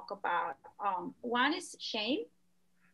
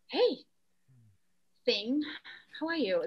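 friendly greeting. Retold or imitated. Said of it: "I pause right now and I go".

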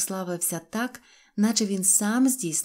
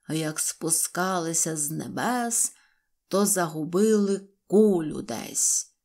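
slow, measured declamation; inspired poem recital; slower than usual. A narrator's reading. Poet reciting from a barrel to crowd, inspired declamation. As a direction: declaim verse grandly, line by line. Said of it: "з натхненням прочитав вірш".

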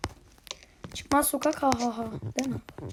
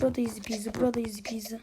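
"easy peasy" dropping softer to a whisper; fading to whisper; 4 semitones lower, 5 dB quieter, much faster than usual. Real, not acted. Gamer repeating his taunt, fading to a whisper. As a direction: let the taunt trail off to a whisper.

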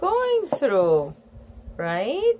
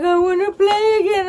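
put-on child voice; 10 semitones higher, 4 dB louder, faster than usual. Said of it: "they'd be like".

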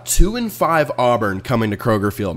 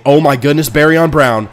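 excited; 3 semitones higher, 6 dB louder than usual. Real, not acted. Reacts to big kick return.

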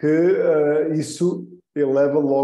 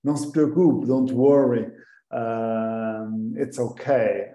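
reassuring; slower than usual. Shown as a demonstration. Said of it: "o outro diz".

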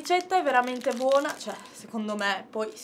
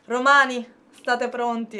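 calling out; 6 dB louder than usual. Acted. Host calls out to Romans.

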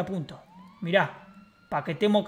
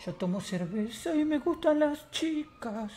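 slow, soft put-on voice pitched higher; soft, high, drawn-out catchphrase; higher character catchphrase; 6 semitones higher, 7 dB quieter, slower than usual. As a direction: sing out the slogan high and slow.

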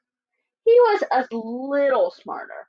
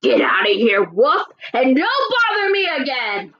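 mildly loud brush-off; rude answer; 3 dB louder than usual. Acted. Rude pig tells the wolf to leave, a bit louder. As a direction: snap the wolf away. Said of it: "that rude little porker answered".

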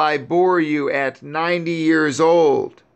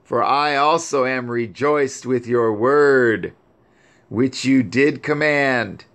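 higher mournful voice, grief turning to praise; weeping lament; 3 semitones higher than usual. Acted. Grieving Sarah praising Yahuwah over her son, higher lament. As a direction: cry out to heaven in sorrow, held high. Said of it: "And she still continued to weep".

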